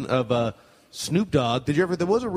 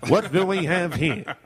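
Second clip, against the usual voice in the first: slow mock sportscaster; drawn-out broadcaster impression; Howard Cosell; 3 semitones higher, slower than usual. Comic morphing rapper into sportscaster, slow impression. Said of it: "Can you do a Howard Cosell?".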